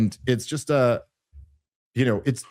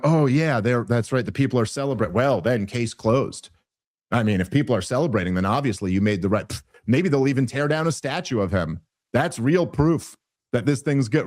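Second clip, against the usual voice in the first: sarcastic reply; 3 semitones lower than usual. Retold or imitated. His own sarcastic reply to Dinesh.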